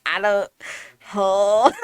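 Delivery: loud, drawn-out mock confusion; retold bafflement. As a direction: act out not hearing any difference. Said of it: "looking at them like".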